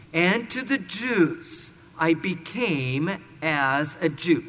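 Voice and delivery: slow, emphatic Bible reading; scripture reading. Acted. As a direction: proclaim each phrase deliberately, with weight. Reads scripture aloud to congregation.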